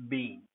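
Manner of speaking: been said with a long ee like bean; pronunciation demo; stressed been. Shown as a demonstration. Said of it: "when stressed".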